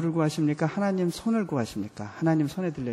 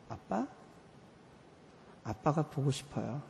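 tearful plea; 10 dB quieter than usual. Retold or imitated. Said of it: "그리고 이렇게 울었어요".

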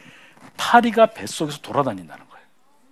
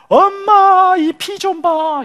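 put-on high, loud child's cry for mom; hurt child; 13 semitones higher, 5 dB louder, much slower than usual. 무릎 다친 아이가 엄마에게 피를 보여주며 높은 아이 목소리로. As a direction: call out like a little kid showing a wound. Child shows mother bleeding knee.

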